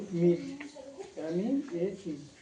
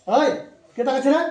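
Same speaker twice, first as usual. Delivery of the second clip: sharp scold; 5 semitones higher, 9 dB louder than usual. Real, not acted. Tutor scolds a distracted child.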